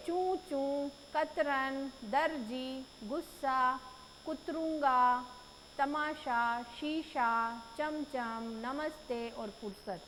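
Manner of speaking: चू चू, कतरन, दर्जी, गुस्सा, कुतरूंगा, तमाशा, शीशा, चमचम, नमस्ते, फुर्सत each said alone, slowly and clearly; a teacher spelling out every word: चमचम, नमस्ते, फुर्सत; careful pronunciation. Shown as a demonstration. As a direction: model each word one at a time for the pupils. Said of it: "सही उच्चारण कीजिए".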